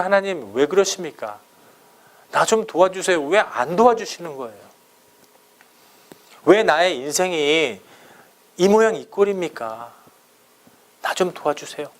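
mildly acted grievance toward God; pleading complaint. Preacher voices his own complaints to God, mildly resentful pleading. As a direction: plead as if asking God why, understated. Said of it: "막 이렇게 원망할 때가 있어요".

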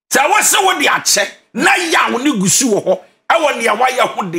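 emphatic preaching. Real, not acted. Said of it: "let me say this emphatically".

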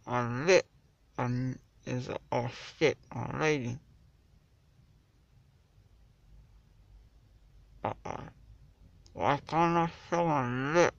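numb lip and chin; after wisdom teeth. Real, not acted. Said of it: "My chin is all numb".

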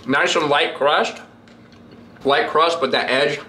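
chewing while talking; eating pizza between words; talking with mouth full. Real, not acted. Seen 2: Bites pizza at 2.1, 2.9, 9.6; chews between, mouth open.

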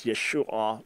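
"Yeshua" with a distinct ah at the end; final ah sounded. Shown as a demonstration. Teacher giving the majority view, "Yeshua" with final ah. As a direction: finish "Yeshua" on a separate ah, shoo-AH. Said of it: "with that final ah sound".

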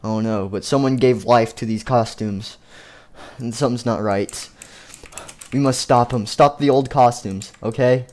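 low, grave leader voice. Acted. Puppet warning the others about the costumes, low and grave. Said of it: "It's like".

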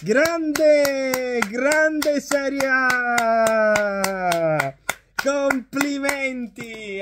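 bitter, slow mock applause; sarcastic praise. Real, not acted. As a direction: drag it out with contempt. Mock praise of referee theft.

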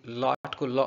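लॉट cut down to लॉ; clipped final T. Shown as a demonstration. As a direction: say लॉट as लॉ, no T sound. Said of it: "बोल के चुप". (लॉट का टी छोड़कर लॉ)

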